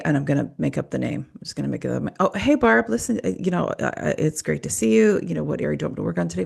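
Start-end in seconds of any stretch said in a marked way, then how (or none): 2.2-6.5 lightly pitched-up friendly greeting; a hint of bright, casual host voice; cheery therapist greeting. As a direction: play the upbeat therapist welcoming Barb. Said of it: "So it would sound like this".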